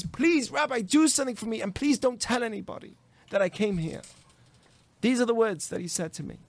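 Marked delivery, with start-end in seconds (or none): 0.0-4.0 higher pleading, easing down towards the end; imitated tearful plea. Crying father asks the rabbi for help, imitated pleading. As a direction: beg as if upset, without real sobs. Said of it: "he's crying with tears".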